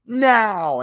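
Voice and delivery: high, loud signal cry; sudden mock battle cry; calling out. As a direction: shout the go signal.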